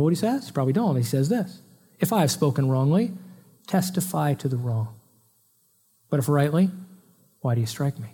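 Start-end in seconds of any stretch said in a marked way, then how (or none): 2.0-8.1 calm rebuke. Retold or imitated. Quoting Jesus's measured reply.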